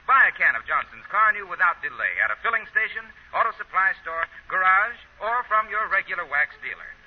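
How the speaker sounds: upbeat announcer selling wax; old-time radio commercial voice; ad read. Acted. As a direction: sell it like a radio pitchman.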